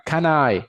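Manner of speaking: "Can I" run together as ca-NAI; linked words. Shown as a demonstration. Teacher shows consonant joining vowel, linked words. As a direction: glue the N of Can onto the vowel I. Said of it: "lo puedo pegar vo-, consonante con vocal".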